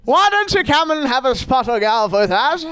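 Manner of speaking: mock genteel invitation. Mock invitation to absent friend.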